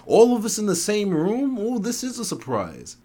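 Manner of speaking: high-pitched woman's greeting; theatrical surprise. A narrator's reading. Newcomer greeting a room of old acquaintances, high mock surprise. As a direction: coo it high, as if delighted.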